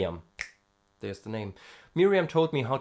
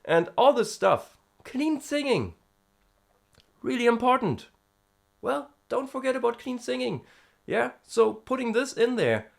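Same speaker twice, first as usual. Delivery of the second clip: high head voice; 11 semitones higher than usual. Acted. Talking in head voice after singing.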